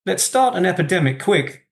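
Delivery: light, sing-song recital of a comic verse; poem reading. Acted. The speaker reads a Spike Milligan poem to the host, cheerful lilt.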